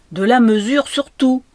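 high, very loud command; crying out. A narrator's reading. Piano teacher shouting over the child's playing, crying out. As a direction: shout the order with full authority. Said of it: "cria la dame".

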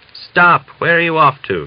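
sudden high, loud alarmed shout; alarmed cry. A narrator's reading. Grandfather alarmed as Mitka threatens not to go: loud alarmed shout. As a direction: jerk up in alarm and shout him back. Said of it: "The old man took alarm".

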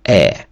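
"е" as one short clear vowel; French vowel sound. Shown as a demonstration. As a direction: model "е" as French ei. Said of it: "яке читається як".

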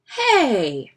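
high, loud call of protest; indignant call. A narrator's reading. Brother noticing his bike is gone, loud and indignant. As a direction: call out in alarm.

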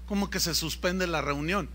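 lightly incredulous, kept to himself; puzzled disbelief. Retold or imitated. Guest preacher doubting the cancellation to himself, puzzled disbelief. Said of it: "yo pensé que estaba bromeando".

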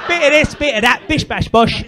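hammed-up mimicry of a London accent; mimicked accent. Comic mimicking London tourist's sightseeing, hammed-up London accent. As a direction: send up the punter's London accent, punchy. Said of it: "do the same with my accent".

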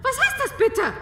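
high, loud sputtering exclamation; flustered outburst. Acted. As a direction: splutter your outrage at the servants. (empört stotternd, laut und hoch)

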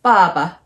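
爸爸 with a strong falling first syllable, light second; down then neutral. Shown as a demonstration. Teacher showing doubled words, down then neutral. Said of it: "ba, that's just neutral".

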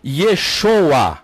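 "Yeshoa" as ye-SHO-a; Eastern pronunciation. Shown as a demonstration. Teacher showing the Eastern form, "Yeshoa" as ye-SHO-a. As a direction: stress the long SHO in "Yeshoa". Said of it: "que eles chamam a pronúncia".

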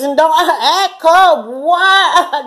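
high, slow, laughing scold; mock scolding. To the man, a high laughing mock scold. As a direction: tease him for acting cold. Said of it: "you know, and like".

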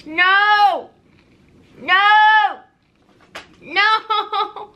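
grimacing while speaking; chewing while talking. Real, not acted. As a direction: mouth partly full. Seen 0: jaw working, lips pursed, disgusted grimace after biting candy.

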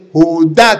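"Judá" with the stress thrown on DÁ; stress on final A. Shown as a demonstration. Priest correcting his uncle's reading, final-syllable stress. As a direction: hit the last syllable of "Judá" hard. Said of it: "tiene acento en la A".

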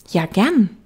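little prince. Acted. Little prince agreeing to tame the fox, high child voice. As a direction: agree readily as a small boy.

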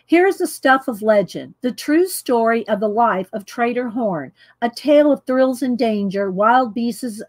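formal blurb reading voice. Shown as a demonstration. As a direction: read it like a book blurb. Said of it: "Let me get in a reading voice".

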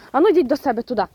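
loud call to send the birds home; shooing call. Real, not acted. (гучно проганяє курей додому)

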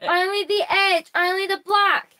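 too loud. Real, not acted. Child protesting to mum about the rip, too loud. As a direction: pipe up loudly, stretching the words. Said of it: "not so loud".

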